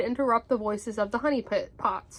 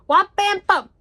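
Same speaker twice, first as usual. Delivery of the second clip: high, punched sound effects; loud impact words; 8 semitones higher, 9 dB louder than usual. A narrator's reading. Rabbit bumps into Tigger, loud and punchy. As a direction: hit each word like a collision. Narrator voices a collision.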